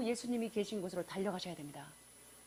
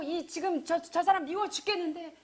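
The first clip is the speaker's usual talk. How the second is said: ordinary delivery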